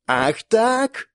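woman yelling at the monster, raising her blade; shouted. Acted. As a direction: shout back in defiance. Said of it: "заорала Дементе".

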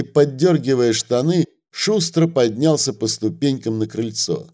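ordinary delivery

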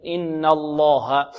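الله after إن with a thick lam, slowly; heavy lam. Shown as a demonstration. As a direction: stretch إن الله with a full lam. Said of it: "تقول مثل". (تفخيم اللام بعد الفتح)

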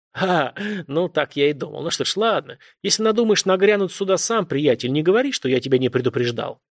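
a hint of a confident, rough man's voice; lightly voiced self-assured caller; a caller telling the cop what's what, lightly voiced; authoritative man. Same caller.

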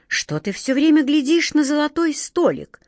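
thundering. A narrator's reading. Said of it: "прогремел Джин".

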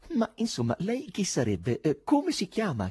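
insist, growing severe; sterner and sterner. A narrator's reading. Chairman demands the stranger's name, growing stern. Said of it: "con modi sempre più severi".

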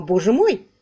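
a touch of a shocked exclamation; mild gasp of alarm in words; understated cry of dismay; exclaiming. Acted. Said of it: "Сама мисс Силвер воскликнула".

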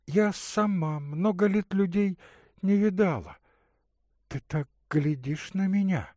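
put-on a caring young woman offering water; Katerina's voice. Katerina speaking softly.

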